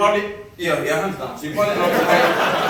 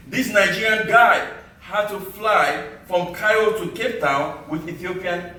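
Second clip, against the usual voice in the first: measured spoken-word delivery with deliberate pauses; poem recital; 4 semitones higher than usual. Acted. Poet to summit crowd recalling the long trek, declaimed poem recital. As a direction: declaim it line by line to an audience.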